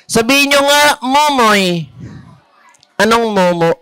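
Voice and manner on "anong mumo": a deep, dopey voice mishearing the name; low goofy character asking what smells; comic low mishearing voice. Acted. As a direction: drop low like a dim sidekick. Mishearing gag in other voice.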